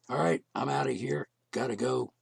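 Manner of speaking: tired, hoarse voice; losing voice. Real, not acted. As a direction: voice giving out. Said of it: "I'm losing my voice".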